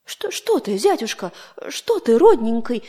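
a caring, cooing mother-in-law; affectionate mother-in-law. Acted. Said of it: "спрашивает его боярня ласковая". (ласково, заботливо)

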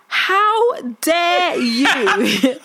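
very slow, drawn-out how dare you; mock indignant. Child inwardly defying the aunt, slow mock indignation. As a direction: stretch it out in mock outrage.

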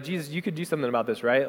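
quick, soft hint dropped in passing; hint at it softly and quickly, as an imitated aside. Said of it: "they were kind of hinting".

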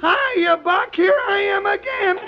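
put-on squeaky cracking old man; a voice that breaks like old Andy; cracked old voice. Andy Devine old character.

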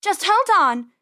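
high urgent bunny shout; acted yell, pitched well up. A narrator's reading. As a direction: shout to your brother while tugging. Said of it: "Penny yelled".

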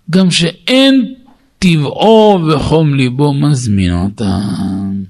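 ringing opening, then settling into measured recitation; declaimed text reading. Real, not acted. Teacher reads the rule about every soul to his listeners, declaimed. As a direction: read it out emphatically, drawing out key phrases.

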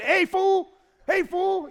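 high, loud tough-guy catchphrase shout; Mister T. Retold or imitated. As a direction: bark it as a hammed-up TV catchphrase. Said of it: "doing the Mister T thing".

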